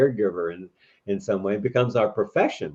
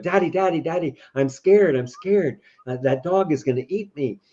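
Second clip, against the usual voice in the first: put-on higher, urgent kid's plea; scared child; 5 semitones higher than usual. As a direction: lightly act a frightened child running to Daddy. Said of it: "if I came and I said".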